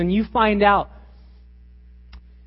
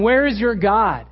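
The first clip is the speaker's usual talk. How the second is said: taunting; 3 semitones higher, 5 dB louder than usual. Retold or imitated. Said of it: "People are, are telling him".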